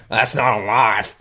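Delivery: slow Australian accent demonstration; Australian accent catchphrase. Shown as a demonstration. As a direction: stretch it out in Australian. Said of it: "So if you hear me say".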